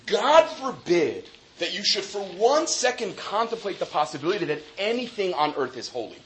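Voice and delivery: solemn rabbinic quote. Retold or imitated. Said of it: "who basically says".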